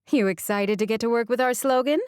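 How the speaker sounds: lightly voiced older boss; a hint of a brisk older woman; Sheila's voice. A narrator's reading.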